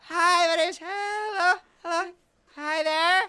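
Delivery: over-eager high greeting; aunt impression. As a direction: greet everyone like the bubbly aunt. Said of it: "so this is my aunt".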